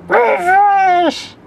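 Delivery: high excited shout. Real, not acted. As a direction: yell it at the screen. Shouting at the page.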